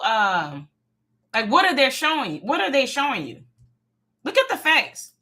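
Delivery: a hint of a blunt therapist laying out facts; mock therapist telling her straight; imitating therapist, straight up. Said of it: "My therapist told me straight up. She said".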